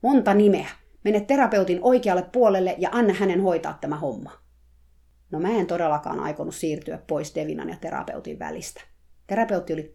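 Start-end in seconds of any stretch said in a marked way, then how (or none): 0.0-4.3 loud coach shouting from outside the pen; shouted instructions. Acted. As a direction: call it out across the arena. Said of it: "Suuri valmentaja huusi mulle". (huutaen annetut ohjeet)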